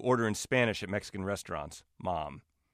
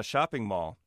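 put-on Spanish accent; slower than usual. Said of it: "said shopping mall in a Spanish accent".

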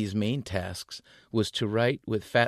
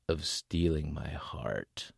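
slow sneering tease; 4 semitones lower, 4 dB quieter, slower than usual. Acted. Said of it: "he sneered".

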